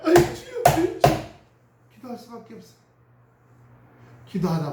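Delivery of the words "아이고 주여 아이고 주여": loud, high sobbing cry of aigo; wailing cry. Retold or imitated. Believer crying out to the Lord, loud sobbing wail. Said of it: "울면서 맨날".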